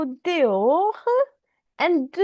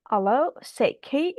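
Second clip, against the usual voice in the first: English-speaking French. Retold or imitated. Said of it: "if you have seen an English-speaking French, it goes like this".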